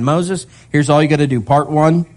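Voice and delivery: a lightly voiced relaxed Lord; casual God voice. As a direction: play God breezily listing the plan. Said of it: "He gives them a simple three-part plan".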